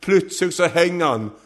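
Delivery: high, forceful sermon storytelling; impassioned preaching. Real, not acted. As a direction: drive the story forward with rising fervour.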